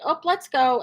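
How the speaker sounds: a light cheerful let's go; happy let's go. Shown as a demonstration. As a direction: keep it breezy and happy. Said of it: "do a happy".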